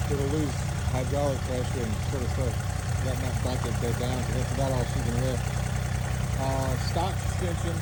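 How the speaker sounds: talking over a running tractor; speaking over engine noise; tractor rumbling behind. Real, not acted. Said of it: "sorry for the tractor noise".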